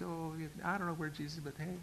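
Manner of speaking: casual mock brush-off; offhand mumble. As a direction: toss it off under your breath, imitating indifference. Mock shrug-off among buddies.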